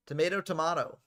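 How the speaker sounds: "Tomato, tomato" said first with AY, then with AH; two pronunciations contrasted. Shown as a demonstration. Commentator weighing up two ways to say it, contrasting "Tomato, tomato". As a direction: say "Tomato, tomato" as tuh-MAY-toe, tuh-MAH-toe.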